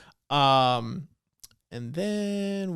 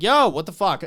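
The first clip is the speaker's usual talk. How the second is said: loud, raised-pitch mock alarm; mock shocked outburst; 5 semitones higher, 7 dB louder than usual. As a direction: blurt it out like someone stunned. Retells Bam arriving shocked.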